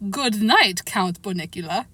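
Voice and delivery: hammed-up, badly faked Transylvanian accent. Boy mocking the rabbit's name, attempted Transylvanian accent. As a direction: try a mock Transylvanian count's accent. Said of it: "attempt at a Transylvanian accent".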